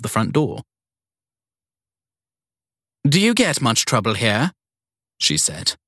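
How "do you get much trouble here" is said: put-on high, imperious old lady; bossy elderly matron giving orders; prissy strict schoolteacher voice. Evelyn questions Sadie.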